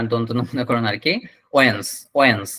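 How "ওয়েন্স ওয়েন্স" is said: "ওয়েন্স" as one low syllable, wens; syllable demonstration. Shown as a demonstration. Teacher breaks Wednesday into parts, syllable demonstration of "ওয়েন্স". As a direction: say "ওয়েন্স" with n straight into s. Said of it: "লাস্টে বর্গের যদি আপনার উচ্চারণ হবে".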